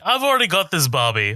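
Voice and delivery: mock bratty child; bratty kid. Voicing the bratty kid Ruby.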